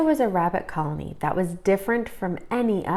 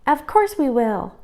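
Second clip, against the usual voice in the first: put-on higher, firm young girl; firm sister; 5 semitones higher than usual. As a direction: insist with confidence. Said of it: "said Liza firmly".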